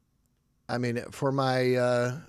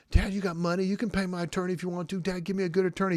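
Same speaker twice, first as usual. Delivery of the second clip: higher, louder, fast begging for a lawyer; pleading son; 6 semitones higher, 4 dB louder, faster than usual. Retold or imitated. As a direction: nag dad for help like an entitled grown son. Adult son pleading with dad.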